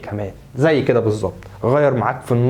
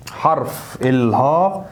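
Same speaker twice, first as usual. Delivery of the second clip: very slow drawn-out phrase; much slower than usual. Shown as a demonstration. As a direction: stretch it out, thinking aloud.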